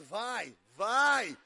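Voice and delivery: hammed-up send-off; mock dismissal. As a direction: shoo them off with exaggerated sweetness.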